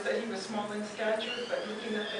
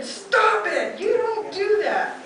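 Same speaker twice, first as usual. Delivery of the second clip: higher, louder mock yell with a laugh; retold yell; 12 semitones higher, 8 dB louder, much slower than usual. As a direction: replay yelling at the women, laughing. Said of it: "I yelled at the two women".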